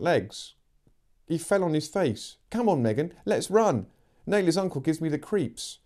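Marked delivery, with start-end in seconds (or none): 2.5-5.8 put-on urgent girl's voice. Amy urging to flee.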